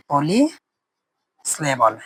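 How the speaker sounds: পলিসিলেবল stretched out very slowly; slow and drawn out. Shown as a demonstration. Teacher spelling out polysyllable slowly for students. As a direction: draw out পলিসিলেবল at a crawl. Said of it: "এটাকে বলা হবে পলিসিলেবল".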